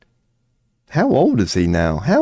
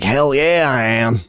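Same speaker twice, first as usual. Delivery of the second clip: higher, keen mock yes; eager young Shapiro; 5 semitones higher than usual. Young Shapiro answers recruiters, eager higher mock voice. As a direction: blurt it out, overeager. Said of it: "he was like".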